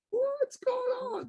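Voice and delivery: high, slow, bewildered inner voice; mock panic kept inside, drawn out. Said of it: "Just inside, I was like".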